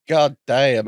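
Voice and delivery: lightly put-on southern American drawl; a touch of southern American twang, admiring; southern American accent. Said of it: "I'm not a southern black man".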